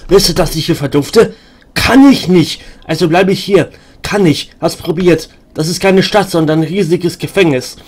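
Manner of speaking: mad beggar woman. Acted.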